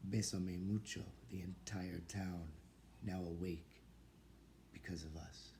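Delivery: spare poetry reading, pausing after each short image; poem recitation. Real, not acted. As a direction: recite in measured fragments, letting each one land. Reads own poem aloud.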